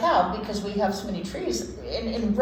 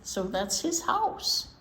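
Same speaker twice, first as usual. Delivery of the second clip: put-on reading to children; 2 semitones higher than usual. Host reading chipmunk book to listening kids, lilting story-time voice. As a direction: read it aloud like story time for little ones.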